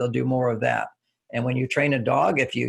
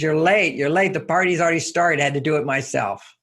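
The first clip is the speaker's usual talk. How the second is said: upset wife scolding; 3 semitones higher than usual. Retold or imitated. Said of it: "she says".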